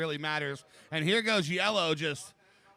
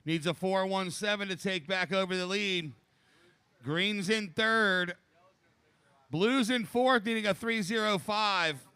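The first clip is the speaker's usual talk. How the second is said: raised, upbeat heat call; laid-back surfer announcer; 3 semitones higher than usual. Real, not acted. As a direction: read the scores to the lineup. Second announcer calls heat scores.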